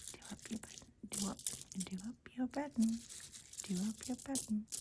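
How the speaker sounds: hammed-up American "do up your button"; amateur imitation of American speech; bad American accent. Shown as a demonstration. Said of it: "My American accent is awful".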